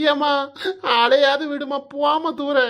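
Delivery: tearful whine to be left alone; acted weepy protest; crying. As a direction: sob and shoo mother away. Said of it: "இவன் அழுறது காதுக்குள்ள உயி".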